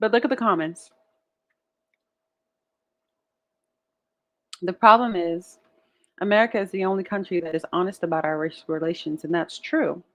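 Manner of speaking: talking while chewing, mouth full of food. Speaker eating pickle slices, turning to the comments: talking while chewing. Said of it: "excuse me for chewing, smacking, masticating on these pickle slices".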